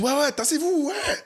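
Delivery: high, exaggerated North American accent on tassez-vous. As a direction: play up a North American accent so the Brits notice. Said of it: "qu'on entend mon accent, euh, nord-américain". (accent nord-américain appuyé et aigu)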